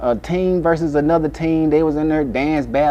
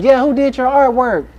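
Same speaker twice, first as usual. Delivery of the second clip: flirting; 10 semitones higher than usual. Retold or imitated. Flirting mother voiced.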